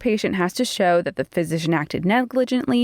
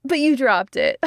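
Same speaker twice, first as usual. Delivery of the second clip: imitating Terry, higher, with a taunting laugh; mocking laugh; 6 semitones higher than usual. Terry laughing at the crying ex-patient, mocking laugh. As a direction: laugh right in her face, mock-amused. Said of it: "Like, laughs in her face".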